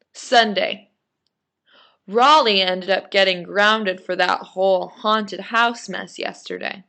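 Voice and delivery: put-on animated read-aloud of a kid's diary; story narration. A narrator's reading. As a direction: read it out clearly with lively emphasis.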